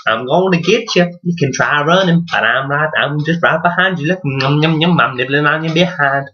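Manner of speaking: a hint of a taunting predator; lightly voiced tiger. Tiger jogging after its prey, lightly voiced playful taunting. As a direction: toy with your prey, munching on the yums.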